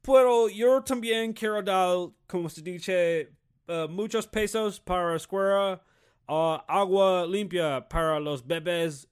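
loud, slow mock American-accented Spanish; stupid-accented Spanish. Imitating the other candidate, stupid halting gringo-accented Spanish. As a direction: lay the clumsy gringo accent on thick, drawn out. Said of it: "the other dipshit looks over and goes".

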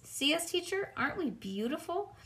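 put-on high, eager child's voice; beaming at the teacher; little girl showing off; proud showing off.

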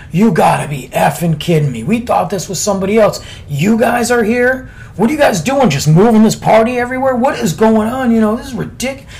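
put-on drunk guy ranting. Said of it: "and he's drunk".

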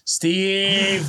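cable guy impression. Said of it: "like cable guy".

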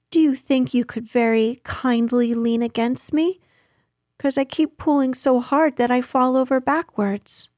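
lightly voiced storybook boy, politely asking; a hint of a boy explaining his trouble; Christopher Robin, earnest request.

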